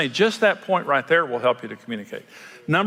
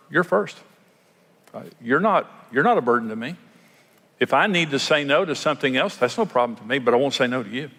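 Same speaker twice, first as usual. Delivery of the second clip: caring tone. Shown as a demonstration. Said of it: "the tone of what you're saying".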